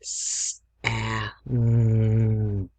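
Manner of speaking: S, a, m stretched into separate sounds; sounding out. Shown as a demonstration. Teacher sounds out Sam for spelling. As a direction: sound out S a m slowly. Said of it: "So we have s".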